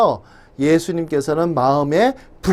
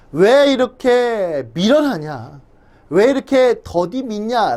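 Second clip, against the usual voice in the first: rebuking tone; 3 semitones higher, slower than usual. Retold or imitated. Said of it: "책망조로 말씀을 하신 거예요".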